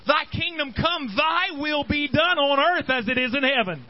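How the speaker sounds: reciting the prayer from the pulpit; quoting the prayer. Acted. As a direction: proclaim the Lord's Prayer. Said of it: "he starts off saying".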